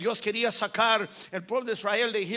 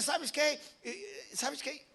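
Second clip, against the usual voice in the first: exasperated God; 6 semitones higher, 6 dB quieter, much slower than usual. Acted. God loses patience with Moses.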